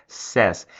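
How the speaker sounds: "says" as "sés", open e, no glide; pronúncia correta. Shown as a demonstration. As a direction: model "says" rhyming with "fez". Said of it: "A forma correta de pronunciar é". ("says" pronunciado "sés", com e aberto)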